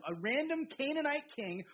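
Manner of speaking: "random" said with deliberate emphasis; stress on random. Real, not acted. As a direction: lean on "random", then carry on. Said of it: "I wanna emphasize the word random".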